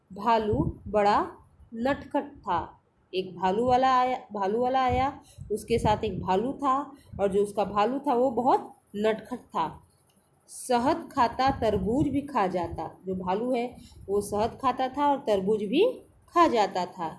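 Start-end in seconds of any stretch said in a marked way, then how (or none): 0.1-2.8 slow reading aloud. Shown as a demonstration. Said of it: "चलिए पढ़ना शुरू करते हैं". 10.5-12.9 slow reading aloud. Shown as a demonstration. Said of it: "चलिए पढ़ना शुरू करते हैं".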